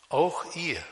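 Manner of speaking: "auch ihr" set apart by pauses, both words weighted; emphatic, isolated "auch ihr"; stress on AUCH IHR. Shown as a demonstration. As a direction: land firmly on "auch ihr". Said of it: "hier eine Betonung liegt".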